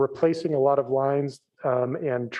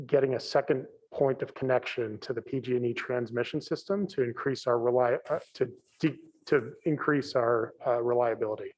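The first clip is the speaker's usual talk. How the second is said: muffled, as if through a hand. Real, not acted. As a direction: speak through a covered mouth. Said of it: "it's a little bit muffled".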